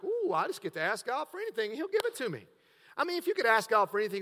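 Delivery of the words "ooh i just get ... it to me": lightly acted eager believer, pitch swooping up; a quick, swooping mock-delighted "we"; eager asker. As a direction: play someone thrilled at an open offer. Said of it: "We're like".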